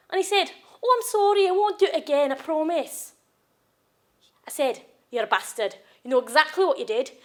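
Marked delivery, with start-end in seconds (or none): 0.8-3.1 raised-pitch mock pleading; mimicked apology. Quoting violent partner's promise, mock-pleading apology. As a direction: imitate his worn-out apology.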